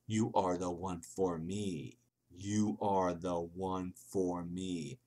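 drawn-out, deliberate words; slow romantic reading. Acted. Reading a lacy valentine's writing aloud, slow and drawn out. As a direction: read it slowly like a love note.

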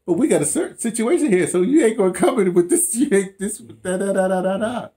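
breezy "you're all set but" voice; mock-cheerful immigration officer brushing him off; casual official. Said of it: "They said".

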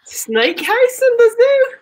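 put-on Australian accent. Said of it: "time in that Australian accent".

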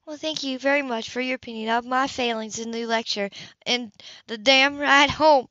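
drip sarcasm, then hit the end hard; sarcastic woman. Acted. Grace sarcastic.

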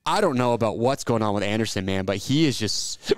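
talking through hiccups; speech broken by hiccups. Real, not acted. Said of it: "I got the hiccups".

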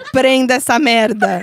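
slow loud demon command; demonic double. Acted. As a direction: bark it like a possessed mother. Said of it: "Eu quero voz de demônio".

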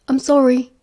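loud enough to hear. Acted. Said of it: "loud enough for Sirius to hear".

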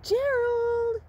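high, loud squeaky puppet call. Pretend. Puppet voice calling Gerald.

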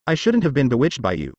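bitter words through clenched teeth; through gritted teeth. Acted. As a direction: grit your teeth and spit it out. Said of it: "said through gritted teeth".

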